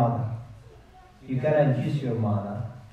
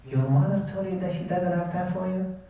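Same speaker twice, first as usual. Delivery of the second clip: mildly incredulous, higher-pitched echo; retold surprise, pitched up; disbelieving question; 5 semitones higher than usual. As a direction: repeat it back as a disbelieving friend. Friend reacts to the retold refusal.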